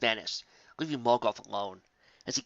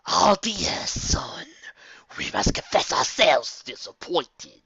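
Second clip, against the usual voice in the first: slow, rasping whisper, disappointed; a looming shadow letting out its disappointment; disappointed rasping entity; sighing dark voice; 5 semitones higher, 4 dB louder, much slower than usual. A narrator's reading. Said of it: "the voice sighed".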